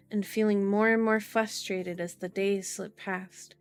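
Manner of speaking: measured audiobook-style reading; story narration. A narrator's reading. Streamer reading a novel to viewers, story narration. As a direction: read the story out evenly and clearly.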